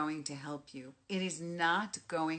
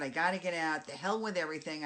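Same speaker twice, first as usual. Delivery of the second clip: louder, restless venting; antsy cooped-up people; 4 dB louder, faster than usual. Retold or imitated. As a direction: blurt it like you can't stay inside a minute longer. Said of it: "People are all of a sudden getting very antsy".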